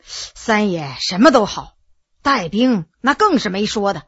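lightly voiced veteran, weighing each phrase; ailing veteran general, confiding.

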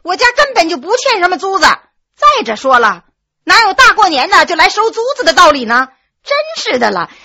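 wife annoyed at rent collectors on New Year; irritated. Acted. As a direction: snap back at the supposed collector. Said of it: "没好气儿地说".

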